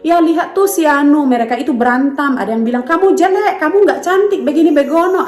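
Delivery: a mother playing her daughter telling the story; daughter's voice. Child retelling schoolmates' WhatsApp fight.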